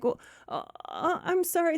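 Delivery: halting, mock tearful apology. Friend learns of the pregnancy, mock tearful. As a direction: falter as if starting to cry. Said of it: "She starts crying and she's like".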